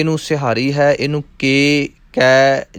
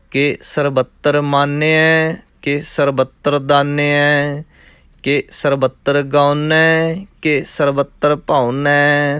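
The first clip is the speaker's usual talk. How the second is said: measured, chanting recitation of verse; rhythmic Gurbani recitation; scripture recitation; slower than usual. Acted. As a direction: recite the verses steadily like a path.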